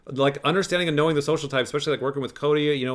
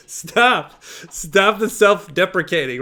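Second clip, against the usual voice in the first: louder, higher, sharp command; firm stop; 4 semitones higher, 5 dB louder, much slower than usual. Real, not acted. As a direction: cut him off firmly. Host cutting off self-deprecation.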